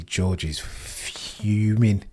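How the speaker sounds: slow, breathy stage whisper. Pretend. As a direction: whisper it like a secret, very slowly. Whispered aside about angry driver.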